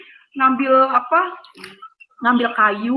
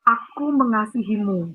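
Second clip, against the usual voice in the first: very gentle; 3 semitones lower, slower than usual. Retold or imitated. A mysterious gentle voice tells the suicidal girl, tender and slow. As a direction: say it slowly like a gentle hand on the head. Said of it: "Dan itu lembut banget".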